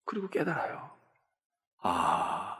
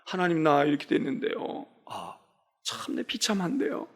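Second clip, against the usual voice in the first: tearful plea; 7 dB quieter than usual. Retold or imitated. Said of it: "웁니다. 슬픈 거야".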